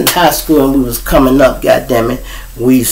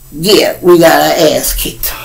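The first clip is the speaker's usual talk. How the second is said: whispered aside; slower than usual. Real, not acted. Confessional aside.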